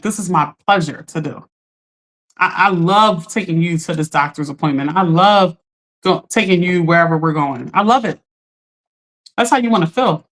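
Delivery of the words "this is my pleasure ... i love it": voicing someone gladly helping, a little lower. Voicing a willing helper for the live audience, warm and glad. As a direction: say it like it's a real pleasure. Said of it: "You wanna feel like".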